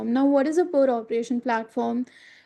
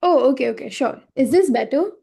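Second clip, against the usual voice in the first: a bit louder, speaking up; 4 dB louder than usual. Real, not acted. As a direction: raise your volume for the listener. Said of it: "can you just, uh, increase your, uh, volume?".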